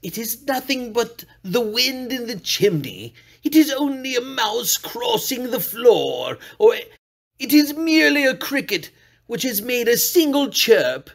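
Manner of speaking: put-on a frightened old man talking himself into calm; lightly voiced old man, hushed at first; old man soothing himself. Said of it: "He had been saying to himself".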